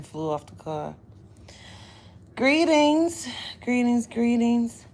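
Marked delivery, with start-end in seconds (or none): 2.4-4.8 high, loud drawn-out greeting; sing-song greeting. Acted. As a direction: call it out to the viewers. Repeated stylized greeting.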